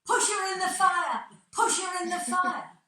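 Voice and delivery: put-on loud gleeful chant of children; bawling children. Children in the audience bawling at the actors, loud mock yell. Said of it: "the little wretches bawled out".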